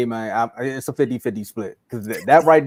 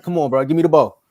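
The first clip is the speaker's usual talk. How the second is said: loud mock plea for the ball, a touch higher; demanding big man; 4 semitones higher, 6 dB louder, faster than usual. Big man yelling at his teammates to give him the ball, loud. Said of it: "He was like".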